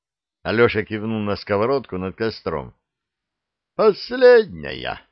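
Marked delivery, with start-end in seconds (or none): 3.7-5.0 slow, sighing and sad, pitched up; the middle head sighs over the last frying pan, slowly and sadly. A narrator's reading. Dragon's middle head mourns the last pan with a slow sigh. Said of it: "вздохнула средняя голова".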